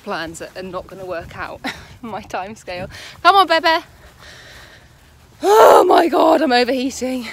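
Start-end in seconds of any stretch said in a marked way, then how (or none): 3.2-3.8 calling the horse. Real, not acted. 5.4-7.3 exasperated. Real, not acted. Hot and exhausted after event.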